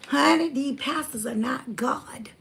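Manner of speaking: slow, hushed whisper. Real, not acted. Telling viewers pastors are not God, slow whisper.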